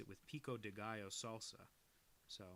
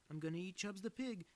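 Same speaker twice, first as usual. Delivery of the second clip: teasing sister; 9 semitones higher, 5 dB louder than usual. Retold or imitated. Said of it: "And my sister would go".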